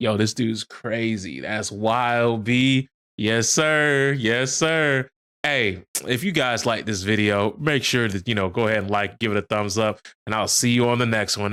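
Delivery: dead flat monotone, very low-pitched. Mocking video makers who just sit there, imitating a very monotone voice. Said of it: "very monotone".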